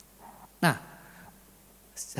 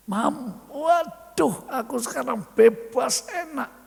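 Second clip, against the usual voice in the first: much higher, louder burst of relief; relieved excitement; 8 semitones higher, 4 dB louder, slower than usual. Acted. Husband tells his wife he is finally free, excited and high. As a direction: gush it like a weight just lifted.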